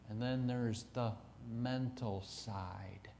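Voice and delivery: hushed, almost breathless whisper. Real, not acted. Survivor confiding to the audience, whispering. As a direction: drop to a whisper on the mental side. Unvoiced, soft, pointed close.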